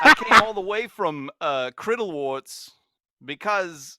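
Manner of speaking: halting impression, slowing on the odd word; Christopher Walken. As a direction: pause oddly before finishing the thought. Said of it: "That's not a bad walking".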